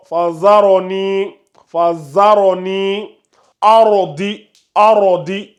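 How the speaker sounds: slow fazaroni with a heavy ra; emphatic ra with sukun. Shown as a demonstration. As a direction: arodi with a thick, full r. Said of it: "Vous essayez d'augmenter le volume".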